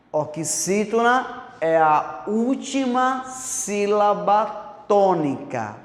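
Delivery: slow, careful dictation pace; dictating slowly for note-taking; slow definition. Shown as a demonstration. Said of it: "calma, viu?".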